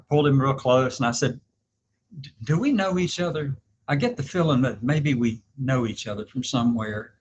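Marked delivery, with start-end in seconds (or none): 2.2-7.1 a light touch of flirty sweetness; lightly voiced sugary come-on; playful mock-flirty voice, only lightly put on; flirty sweet voice. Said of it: "I'm using this voice, too".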